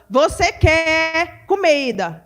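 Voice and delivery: put-on slow, coaxing question to a little child; mother to baby. Mother slowly offering her baby food, coaxing. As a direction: ask it slowly, like feeding a toddler. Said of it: "Quando eu falo".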